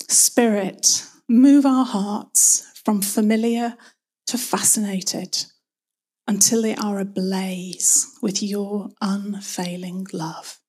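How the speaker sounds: slow, hushed prayer with long pauses. Real, not acted. Preacher opening in prayer to Father God, slow reverent prayer. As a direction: pray slowly and reverently, phrase by phrase.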